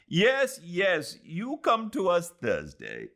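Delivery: a husband calling insistently from across the room; calling from afar. Acted. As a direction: call across the room, keen. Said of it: "her husband called from the distance".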